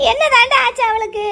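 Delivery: loud, upset outburst in a hospital corridor. Acted. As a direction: demand it too loudly, close to a shout. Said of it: "சரி, கத்தாத".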